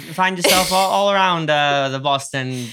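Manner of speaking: put-on loud old-timey radio announcer; 1940s sports announcer. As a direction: bellow it like a vintage radio host. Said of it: "You in nineteen forties sports announcer".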